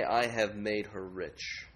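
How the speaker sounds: slow, hushed hypothetical boast; muted idol boast. Acted. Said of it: "Would they say".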